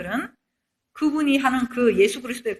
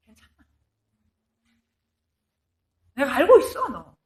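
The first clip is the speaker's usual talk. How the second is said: gentle reassurance; 3 dB louder than usual. Retold or imitated. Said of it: "하나님 뭐라 그래요?".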